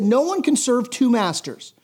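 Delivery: preacher reading Jesus' words, measured; scripture reading. Acted. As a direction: read the verses with pulpit weight. Reads scripture at length.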